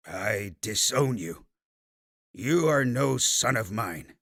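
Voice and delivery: slow, firm, a touch of regret; resolve with a hint of regret. Father disowning his grandson, slow with resolve and regret. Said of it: "voice was filled with deep resolve and a hint of regret".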